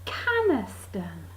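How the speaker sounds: slow, drawn-out CANESTEN; weighty three syllables. Retold or imitated. Another medicine that fits the pattern, weighty and slow. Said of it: "as if three syllables makes it more weighty".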